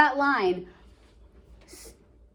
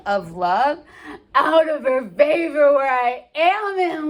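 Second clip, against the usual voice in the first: slow, sighing lovesick Romeo; teacher acting out Romeo's lament with heavy sighs; dramatic Shakespeare reading. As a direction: read it as a moping, heartsick youth. Reads the scene aloud in voices.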